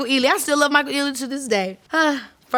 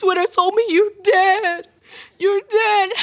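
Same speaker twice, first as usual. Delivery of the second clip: put-on teary whimper, high-pitched whimpering cry; 6 semitones higher than usual. Retelling the sister calling in tears, imitating her whimpering.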